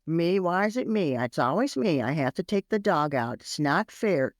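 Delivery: put-on lightly whining like a put-upon child; whiny complaining kid. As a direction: grumble with a hint of childish sulk. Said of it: "Just like a kid".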